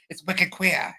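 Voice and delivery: half-hearted Boston accent that doesn't quite land; attempted Boston accent. Shown as a demonstration. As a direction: drop the r in "Queer" like a Bostonian, "Wicked Queeah". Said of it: "I can't do a Boston accent".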